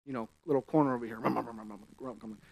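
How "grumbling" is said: a mumbled grumbling noise; mock grumble. Shown as a demonstration. Preacher imitating the Jews grumbling in the corner, mumbling. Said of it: "they're grumbling in their own".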